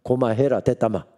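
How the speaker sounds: God's brush-off in blunt Gyeongsang dialect, lightly voiced; a casual Gyeongsang "enough already". Preacher voicing God's refusal to Moses, lightly Gyeongsang. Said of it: "경상도 말로 하나님이 이렇게 응답하십니다".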